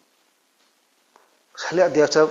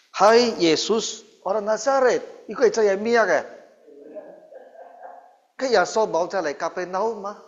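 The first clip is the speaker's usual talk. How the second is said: possessed man shouting; 5 semitones higher than usual. Retold or imitated. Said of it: "dia teriak apa". (orang kerasukan berteriak kepada Yesus dengan suara tinggi dan lambat)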